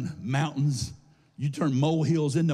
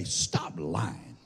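low, soft mumbled stop lying; muttered like nobody means it; half-hearted; 9 semitones lower, 5 dB quieter than usual. Shown as a demonstration. Pastor mocking the crowd's weak reply, mumbled. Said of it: "tell 'em like you mean it".

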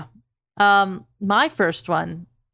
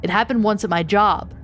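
describing pain. Acted. Reads a creepy story aloud.

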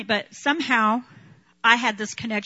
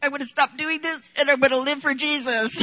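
put-on higher, earnest promise from the party girl; party girl telling friends she'll live for Jesus, earnestly; mock earnest vow; 5 semitones higher than usual. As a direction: sound sincere about quitting someday. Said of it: "and I'd say".

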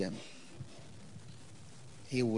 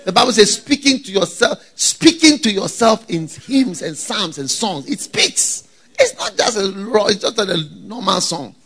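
loud, emphatic preaching; raised-voice sermon exhortation; 6 semitones higher, 10 dB louder than usual. Acted. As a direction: press it on the congregation, loudly. Preaches with rising force.

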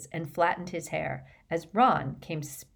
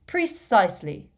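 mildly feeble fat lady; a touch of weakness as you confirm the password; 3 semitones higher, 5 dB louder than usual. A narrator's reading. Fat lady confirming the password, in a slightly feeble voice. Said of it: "in a feeble voice".

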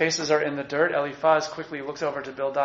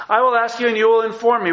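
higher and louder, God commanding Job; God demanding answers; 6 semitones higher, 6 dB louder than usual. Acted. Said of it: "He's saying".

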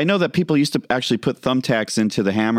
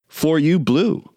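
stiff robot voice, rising high at the end; 6 semitones higher than usual. Pretend. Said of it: "It's the robot version of a song".

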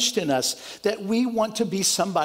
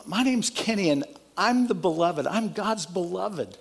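tender affirmation; 2 semitones lower than usual. Shown as a demonstration. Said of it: "even it would be better is".

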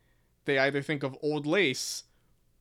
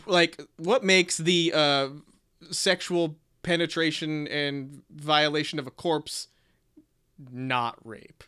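eager co-host voice. Retold or imitated. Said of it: "a yes-anding co-host would say".

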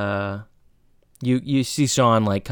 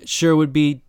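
a bit loud and raised, acting tough; mock loud announcement; 4 semitones higher, 4 dB louder than usual. Cory acts tough for the other riders, mock loud bravado. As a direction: project it for the whole carriage, play-tough. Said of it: "And he loudly goes".

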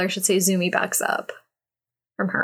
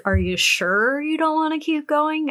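teasing seductive voice; 8 semitones higher than usual. Retold or imitated. Seductive woman in story.

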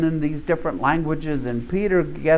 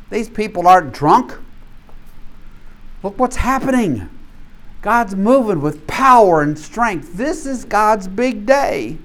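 preaching as Peter; 4 semitones higher than usual. Acted. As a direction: proclaim it like Peter rising before the crowd. Preacher voices Peter's Pentecost speech.

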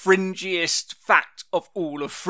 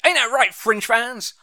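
higher-pitched crowd-pleasing appeal; playing to the audience; 6 semitones higher than usual. Podcast host appealing to listeners for agreement, mock crowd-pleasing. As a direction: toss it out to the fans like a showman. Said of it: "Playing to the audience".

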